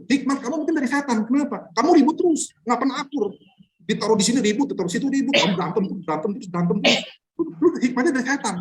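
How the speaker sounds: mock Yakobus berating a quarrelsome congregation; harsh rebuke. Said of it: "dia ngomongnya keras banget".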